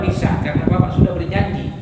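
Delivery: low, quick doctor voice; reassuring doctor. Acted. Doctor reminding patient of his promise, reassuring.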